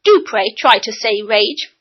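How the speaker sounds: "rage" with a full clear R; slowly modelling "rage"; careful, slow "rage" with the R; correct R. Shown as a demonstration. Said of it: "said Missus Fidget".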